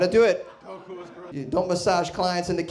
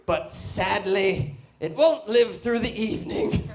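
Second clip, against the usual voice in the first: documentary narrator; 4 semitones higher, slower than usual. Retold or imitated. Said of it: "the music will change".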